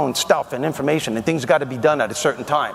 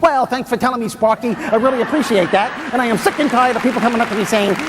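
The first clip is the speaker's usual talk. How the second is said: higher, mock-grateful sarcasm at the bosses; sarcastic griping; 6 semitones higher than usual. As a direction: thank them with dripping sarcasm. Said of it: "This is negative self-talk".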